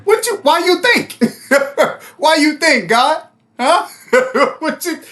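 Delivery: high, incredulous complaining with laughs; indignant Cain. Retold or imitated. Vlogger voicing Cain protesting to God, high and indignant. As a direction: protest to God like a wronged brother.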